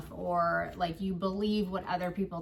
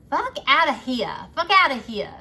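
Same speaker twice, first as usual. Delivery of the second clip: loud, higher, forceful dismissal; loud mantra; 5 semitones higher, 12 dB louder than usual. Shown as a demonstration. Reader telling viewers their mantra, loud and fierce. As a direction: bark it out like a battle cry.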